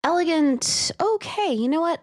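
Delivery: light up with delight; excited. Real, not acted. Excited about word.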